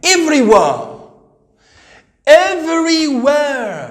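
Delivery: everywhere with an American r, drawn out; teacher models the American way, slowly; American accent. Shown as a demonstration. Teacher shows pupils the American accent. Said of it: "As American accent".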